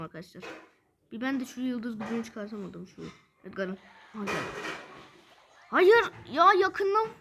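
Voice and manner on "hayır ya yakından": frustrated groan. Real, not acted. Enemy attacks up close.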